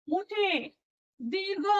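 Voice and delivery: "मोठे", "दीर्घ" each stretched out; elongated. Shown as a demonstration. Teacher explaining what long means, "मोठे, दीर्घ" elongated. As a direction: draw out the vowels of "मोठे" and "दीर्घ". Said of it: "त्याचा उच्चार लांबट अशा प्रकारे".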